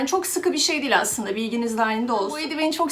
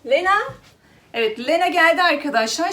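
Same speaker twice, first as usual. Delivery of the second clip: excited greeting; 5 semitones higher, 5 dB louder than usual. Real, not acted. Cat finally arrives.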